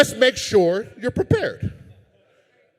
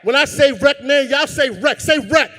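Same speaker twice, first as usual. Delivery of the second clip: 1 hype call; 3 semitones higher than usual. Real, not acted. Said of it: "I don't believe you".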